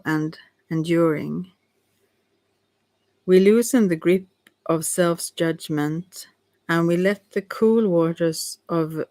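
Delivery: measured reading, broken by pauses; halting read-aloud. Real, not acted. Reader sharing a card's meaning, measured and halting. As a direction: read the card out carefully, phrase by phrase.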